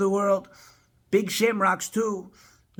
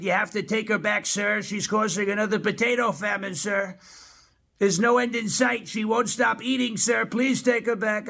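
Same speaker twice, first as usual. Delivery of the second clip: mock plea, a little higher; pleading Irish officials; 4 semitones higher than usual. Ireland begging the president to take her back, mock pleading. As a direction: plead inside a president impression. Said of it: "I was talking to Ireland. They said".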